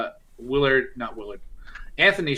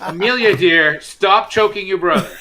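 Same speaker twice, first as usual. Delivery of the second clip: high, loud motherly scolding; 6 semitones higher, 7 dB louder than usual. Acted. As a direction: tell her off like a mom.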